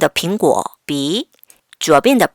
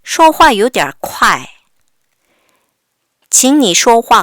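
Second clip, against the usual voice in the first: very slow and louder; slow read-along; 2 semitones higher, 5 dB louder, much slower than usual. Shown as a demonstration. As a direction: lead the class syllable by syllable. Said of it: "같이 읽어볼게요".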